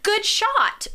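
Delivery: high-pitched mock encouragement; imitated sideline cheer. Parents praising a missed goal, high mock cheer. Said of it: "They cheered as ho-, loud".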